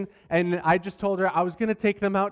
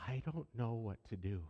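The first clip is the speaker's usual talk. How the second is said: put-on helpless child; 7 semitones lower, 15 dB quieter than usual. Puke-covered daughter to dad.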